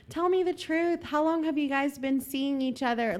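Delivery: high-pitched retold plea; mock crying. Girl turns to the other woman, high mock-tearful plea. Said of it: "Like, crying".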